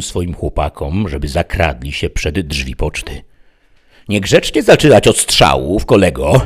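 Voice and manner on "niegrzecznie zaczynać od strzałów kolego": raised, louder calling voice; shouted challenge. A narrator's reading. Sheriff shouts to the bandit inside, loud taunt. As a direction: call out to someone inside. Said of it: "krzyknął".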